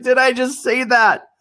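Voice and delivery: high, incredulous self-questioning; stunned disbelief. Retold or imitated. Storyteller shocked at what he said to client, high disbelief. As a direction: question yourself in a high, astonished voice. Disbelief at his own words.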